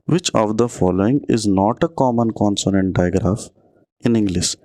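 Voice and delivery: slow, careful quiz read; reading the question aloud. Shown as a demonstration. Teacher reading an exam question to students, slow. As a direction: spell the question out slowly for the class.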